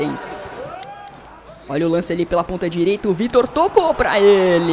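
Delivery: usual speaking voice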